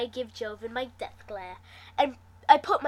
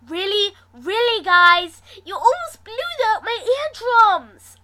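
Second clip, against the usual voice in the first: high, louder startled protest; surprised squeak; 10 semitones higher, 12 dB louder than usual. A narrator's reading. Narrator scolding friends who screamed, high startled squeak. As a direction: squeak it out, ears still ringing. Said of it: "I squeaked in surprise".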